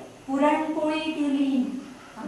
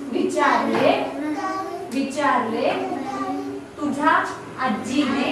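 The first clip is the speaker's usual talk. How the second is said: slow dictation. Shown as a demonstration. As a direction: spell out each word for the class to write. Teacher dictates sentences word by word.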